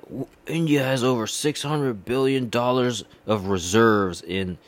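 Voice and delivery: lightly voiced boastful diplomat; a hint of a smug official bragging; imitating the diplomat's boast, barely changed; mocking the diplomat. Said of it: "He's like".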